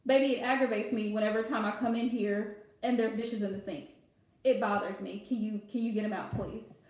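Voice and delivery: sweetly coaxing him, not nagging; gentle request. Retold or imitated. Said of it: "he meant to say".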